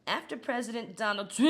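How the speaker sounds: forced-out shout. Real, not acted. Gagging on Trump's name, forcing it out in a fast shout. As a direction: push through it in a fast shout. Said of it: "a visceral reaction".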